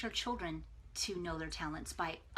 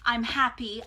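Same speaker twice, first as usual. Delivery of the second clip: joyful relief; 6 dB louder, slower than usual. Retold or imitated. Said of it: "Then I'm like".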